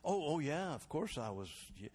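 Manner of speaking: high, laughing, caught-out stammer; flustered laughing reply. Retold or imitated. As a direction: laugh through the yeahs like you forgot. His own flustered reply retold.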